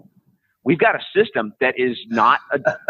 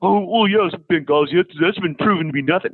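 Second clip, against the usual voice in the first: mock liberal; 3 semitones higher than usual. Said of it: "the so-called liberals are like".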